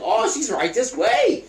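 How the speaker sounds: slow, high, mock-courteous voice; Ben Stiller's orderly. Orderly showing Happy to his grandma, slow high fake-nice imitation. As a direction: drag it out sweetly, pitched high. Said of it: "He's like".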